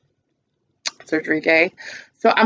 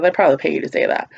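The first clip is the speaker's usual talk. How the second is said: sarcastic; 3 semitones lower, much faster than usual. Retold or imitated. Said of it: "my sarcastic self".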